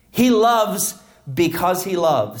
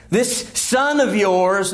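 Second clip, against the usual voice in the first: sarcastic; 3 semitones higher, slower than usual. Retold or imitated. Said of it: "do you see the sarcasm there?".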